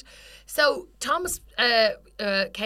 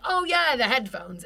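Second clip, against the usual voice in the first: instant recognition; 3 semitones higher, 3 dB louder than usual. Retold or imitated. Mimicking the shop guy remembering the headphones, instant recognition. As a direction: pitch jumps up on a loud 'oh yeah'.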